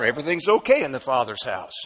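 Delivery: settled answer, dropping back from the alarm; steady the worrier with an even voice; calm reassurance. Acted. Preacher answering the storm objection, calmly reassuring.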